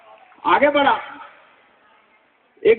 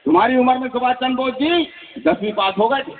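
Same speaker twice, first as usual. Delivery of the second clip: a mild stern teacher's rebuke, slightly higher; lightly hammed-up scolding schoolmaster; 4 semitones higher than usual. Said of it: "master ने डांटा".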